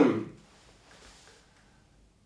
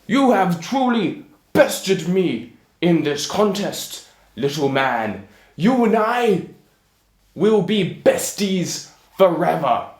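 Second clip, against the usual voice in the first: giant's voice; 3 semitones higher, 5 dB louder than usual. Acted. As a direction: declare friendship as a big, dim giant. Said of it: "So, the giant, having seen this".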